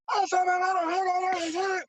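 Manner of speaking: high, strained call from afar; mock high-pitched yell; high distant voice. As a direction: voice someone yelling far off. Retold voice from outside.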